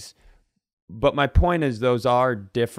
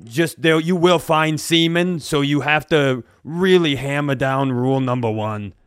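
put-on haggard old instructor; 2 semitones higher, 4 dB louder than usual. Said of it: "haggard eighty-year-old woman walks in".

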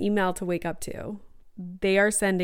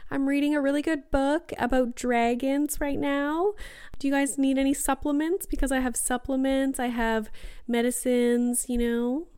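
higher-pitched nerdy mom voice; awkward mom at party; 5 semitones higher than usual. Acted. Mom offering supplements to younger partiers, awkward higher voice. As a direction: play the out-of-place mom, pitched up. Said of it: "Like, that's gonna be me".

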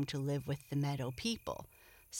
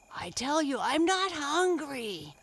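higher, louder sleepy grumble; drowsy big brother turtle; sleepy turtle murmur; 9 semitones higher, 5 dB louder than usual. A narrator's reading. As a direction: grumble without waking. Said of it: "he murmured".

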